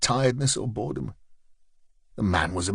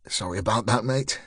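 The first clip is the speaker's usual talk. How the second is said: smooth things over gently; a touch of good cop soothing; placating. Acted. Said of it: "his placating tone".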